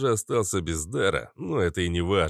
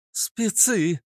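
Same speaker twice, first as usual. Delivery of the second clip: shriek; 13 semitones higher than usual. Acted. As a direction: shriek a sudden warning. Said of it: "взвизгнула Иштар".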